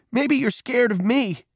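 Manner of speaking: high, drawn-out dare; angry boy baiting an opponent; goading taunt. A narrator's reading. Peter taunts while swinging fists.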